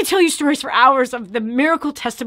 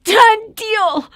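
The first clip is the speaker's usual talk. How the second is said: firm declaration; 7 semitones higher, 6 dB louder than usual. Retold or imitated. Retold declaring to the enemy.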